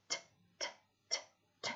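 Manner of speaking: "T, t, t, t" as short voiceless taps; isolated t sounds. Shown as a demonstration. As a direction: tap "t" four times, crisp. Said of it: "c'est la lettre T".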